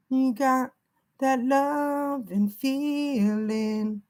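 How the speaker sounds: slow, drawn-out spirit message; channelled message. Shown as a demonstration. Reader passing on what the spirit says, slowly. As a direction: stretch each word as if relayed from beyond. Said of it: "I'm hearing".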